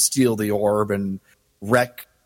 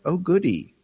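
high-pitched, lightly put-on eagerness; a hint of gleeful villain; mock glee; 7 semitones higher than usual. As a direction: play a villain relishing the fight. Voices the villain's eager reaction.

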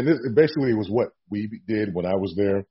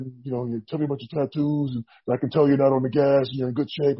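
slightly higher, lightly voiced boss; a hint of a calm executive; voicing the boss; 3 semitones higher than usual. Boss voiced in retold meeting.

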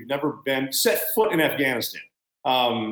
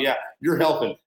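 distracted parent. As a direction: humour the child between sips of coffee. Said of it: "you just look over once in a while".

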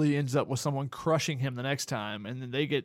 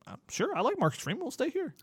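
high, soft mock reply from the staff; high-pitched put-on quote; imitated staff; 11 semitones higher, 3 dB quieter than usual. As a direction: pitch it up and keep it light, imitating them. Acted quote of departing coach's staff.

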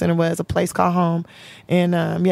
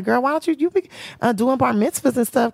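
higher, playful friend; voicing her girlfriend; homegirl voice; 4 semitones higher than usual. Quoting homegirl.

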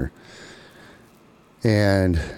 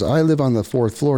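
woman's voice; 7 semitones higher than usual. Retold or imitated. Woman tells the stranger her floor, high. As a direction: tell him the floor, pitched up.

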